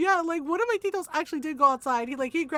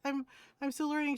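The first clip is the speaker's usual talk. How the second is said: small, softer halting excuse; timid apology; 6 dB quieter, faster than usual. Retold or imitated. Young nurse explaining herself to tita, timid. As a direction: voice a junior owning up quietly.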